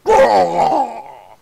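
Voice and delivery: loud wrestler's roar; Hulk Hogan. Acted. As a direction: burst in with a big high yell. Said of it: "into the room like Hulk Hogan".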